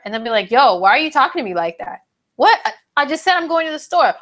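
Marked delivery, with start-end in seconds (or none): 0.5-2.0 quick, pushy challenge; mock confrontation. Stranger picking a fight with Scorpio, quick and accusing. Acted quarrel with rude stranger. 2.3-4.1 higher and fast, taken aback; mock defensive. Scorpio caught off guard by a rude question, higher and rushed.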